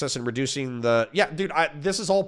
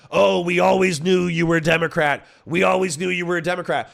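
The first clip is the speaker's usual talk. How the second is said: smug sneering jeer, a touch louder; lightly imitating gloating critics; mocking right-wingers; 4 semitones higher, 3 dB louder than usual. Imitating right-wingers gloating at him, in a smug mocking tone. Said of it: "right-wingers come in and say".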